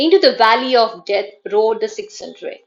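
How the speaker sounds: emphatic recited line; dactylic verse reading. Shown as a demonstration. Teacher reciting Tennyson as a dactylic example, emphatic. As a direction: punch out the opening beats of the verse. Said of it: "dactylic meter".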